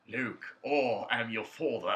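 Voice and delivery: a barely changed voice, mocking a lame Vader; bad Darth Vader impression. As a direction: imitate a weak Darth Vader impression, laughing through it. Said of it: "he fucking does Darth Vader".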